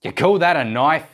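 broad hammed-up Australian accent, bushman style; mock Jazza Aussie accent. Impersonating Jazza to open his video, in a hammed-up Australian accent. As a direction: put on a cheesy Aussie outback accent to play Jazza. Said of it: "that terrible, terrible accent".

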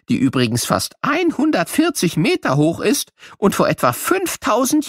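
very high, bright cartoon sidekick talking to kids; squeaky little figure, chatty and playful; high-pitched children's show character. Character Albert speaks to children.

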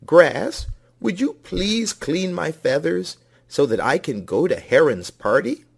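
high, pleading rooster voice. A narrator's reading. Rooster begging Grass to clean him, pleading. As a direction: beg sweetly in a high voice.

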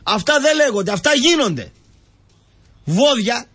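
heated scolding. Real, not acted. Scolding the club's people.

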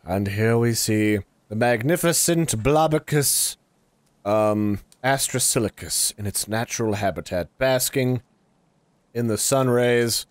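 hushed, reverent wildlife narrator; nature documentary narrator. Pretend.

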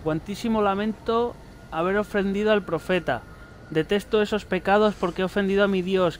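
measured, pious reading voice; solemn note reading. Acted. Player reading a penitent's note to viewers, prayer-like reading. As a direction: read the confession steadily like a prayer. Reads a second note aloud.

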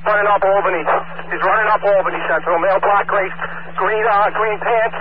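urgent pursuit call. Real, not acted. Officer in foot pursuit.

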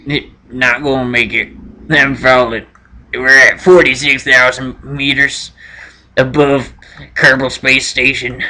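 lightly acted last transmission, low and halting; mock-solemn goodbye from a falling astronaut; doomed astronaut farewell.

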